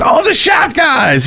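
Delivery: high, slow, sing-song mock cheer; imitating a goofy little dance voice; sing-song imitation. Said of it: "does, like, this little kinda dance".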